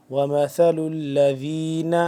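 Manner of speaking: وَمَثَلُ الَّذِينَ, ذ soft with tongue tip out; soft dhal. Shown as a demonstration. Teacher modelling the soft ذ for students, slow recitation. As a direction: recite slow, ذ light between the teeth. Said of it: "زبان کی نوک ... نرمی سے، ذین".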